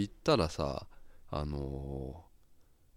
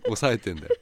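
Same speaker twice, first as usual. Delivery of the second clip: stifled giggles; 3 dB louder than usual. Real, not acted. Laughing while telling the story.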